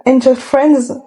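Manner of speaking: Angel Friends said slowly in a mock English accent; a light, slow English accent on the title. Shown as a demonstration. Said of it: "Guettez mon accent anglais comme il est bon".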